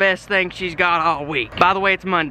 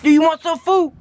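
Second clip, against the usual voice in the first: pet talk; 6 semitones higher than usual. Real, not acted. High pet voice to dog.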